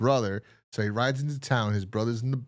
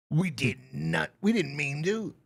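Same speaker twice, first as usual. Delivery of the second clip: mock plea; 5 semitones higher than usual. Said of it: "killers plead".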